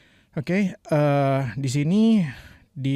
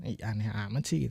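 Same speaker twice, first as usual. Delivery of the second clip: friend's mock reaction; 3 semitones lower, 8 dB quieter than usual. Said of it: "Kalau kita nanya gitu ke teman".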